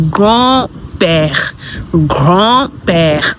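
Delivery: "grand-père" as "graw-pair"; French pronunciation. Shown as a demonstration. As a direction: say "grand-père" in two parts, d silent. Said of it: "you say".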